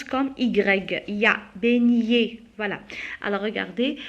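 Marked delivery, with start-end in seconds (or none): 1.6-2.4 "beignet" with no hard g. Shown as a demonstration. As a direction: say "beignet" slowly, gn gliding like y. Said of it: "que se prononce Ya".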